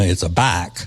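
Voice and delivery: southern drawl. Shown as a demonstration. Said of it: "a southern drawl".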